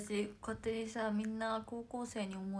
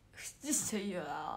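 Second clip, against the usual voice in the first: slow, lower, drawn-out sneeze; Julie's sneeze imitation; 4 semitones lower, slower than usual. Idol guesses how Julie sneezes, slow and drawn out. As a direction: stretch out a sleepy sneeze. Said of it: "って感じか".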